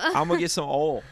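"ol" with the glide dropped, mocking; mock oil as ol. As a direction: mimic "ol" for oil. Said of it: "that's what you say".

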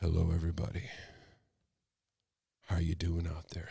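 low, rough voice from a cold; sick voice. Real, not acted. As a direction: croak it out with a heavy cold. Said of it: "I know y'all like to hear my sick voice".

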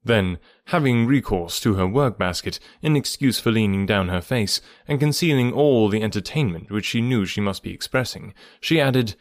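measured classic-novel narration; story narration. A narrator's reading. Narrator reading Emma's final chapters to listeners, measured storytelling. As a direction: read the novel aloud with deliberate pauses.

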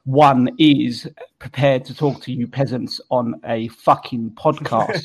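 put-on slow, haughty posh English accent; mock-regal English accent, drawn out. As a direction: look down on the peasants in slow upper-class English. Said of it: "for yourself in third person".

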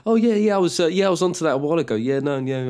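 quick, casual show-off tone; smug know-it-all. Acted. Fan boasting they knew first, smug. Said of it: "and then you go".

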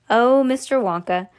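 understated plea to Wonka; mild wail. Acted. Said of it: "wailed Missus T V".

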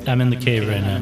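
echoing voice, as from a cave. Real, not acted. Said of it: "Ian, why are you the only one who's echoing?".

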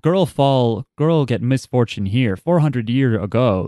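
slow, halting mock broken English with dropped words; imitating broken English. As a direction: copy the character's choppy subtitle speech, slowly.

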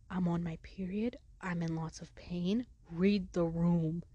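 slow, pointed stage whisper; retold private plea, half-whispered. Student privately telling coach about her pain, whispering. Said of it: "I'm silently whispering at her".

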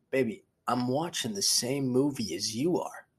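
mildly pissed-off retelling of a fed-up husband; mock exasperated dad. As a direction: drag out the last sentence in mock exasperation. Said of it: "he would get so pissed".

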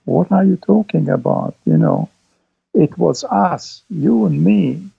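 Peter's plea, lightly acted and slowed; quoting Peter. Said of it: "And he said".

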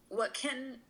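real tears, voice pitched high; tearful. Real, not acted. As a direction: push on through crying, with small laughs. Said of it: "I'm sorry for crying".

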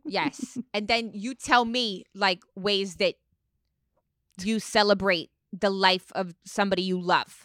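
lightly indignant housewife impression; reality-star lecturing; Teresa. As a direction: make the point deliberately, in character. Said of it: "Your Teresa's so good".

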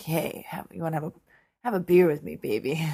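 lightly voiced bar-hopping party girl; crazy party girl. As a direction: hit on someone at a bar, party-girl style. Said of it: "like some crazy party girl".

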